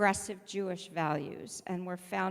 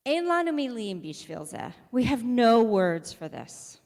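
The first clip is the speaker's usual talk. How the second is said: vendor near tears; 3 semitones higher, 9 dB louder than usual. Retold or imitated. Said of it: "And he starts to cry".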